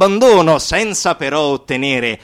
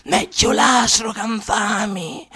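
grido altissimo e rotto dal pianto; urlo disperato; 4 dB louder than usual. Acted. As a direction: urla il dolore, straziata. Voce che urla disperata. (grido disperato e piangente)

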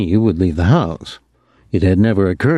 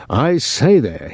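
English gent; 5 semitones higher, slower than usual. Retold or imitated. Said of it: "what the Englishman said".

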